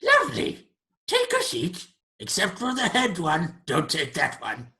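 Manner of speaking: high, loud creature welcome dropping to a warning; shrieky greeting, then settle into instructions; creature host. Acted.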